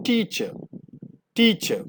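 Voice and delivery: ടീച്ചർ said as itcha, no final r; ടീച്ചർ ending on a soft a; right pronunciation. Shown as a demonstration. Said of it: "ടീച്ചർ എന്നല്ല". (ടീച്ചർ ശരിയായ ഉച്ചാരണം)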